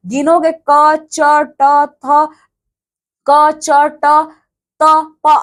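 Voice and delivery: drawn-out, separate letters, each one held; counting letters out slowly. Shown as a demonstration. Teacher counting letters aloud for students, slowly and separately. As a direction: spell out क, च, ट one by one. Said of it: "अगर आप यहां से देखोगे".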